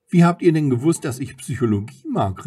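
exclaimed question, strongest at the start; calling out. A narrator's reading. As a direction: burst out high and loud, then settle. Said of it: "rief sie".

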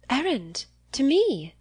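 high-pitched, puzzled query; startled question. A narrator's reading. Catherine answering Eleanor about the errand, startled. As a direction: ask it high, taken aback.

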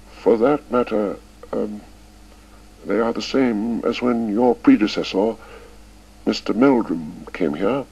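put-on slow, dignified old schoolmaster; slow and proud. A narrator's reading. Old Chips defending his syllabus, slow and proud. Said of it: "Chips answered slowly and with pride".

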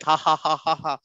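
mock "ha ha ha" laugh; put-on, evenly repeated laugh; imitated laughter. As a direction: imitate a student laughing, spelled-out ha-has. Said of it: "Mayank will be laughing like".

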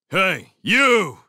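put-on loud, high drunken yell. A narrator's reading. Drunken beast of a man picks out the leader, yelling. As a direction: holler it at someone across the yard. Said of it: "yelled the beast".

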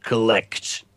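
a mock Wither calling back; creature reply. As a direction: drag it out like a looming monster. Answering the put-on voice.

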